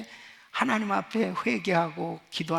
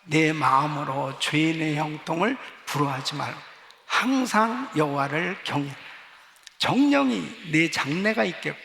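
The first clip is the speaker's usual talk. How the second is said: steady unison Bible reading, louder toward the end; scripture read aloud; 3 dB louder than usual. Shown as a demonstration. Pastor leading congregation in reading, firm recitation. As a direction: lead the room through the verse. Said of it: "시작".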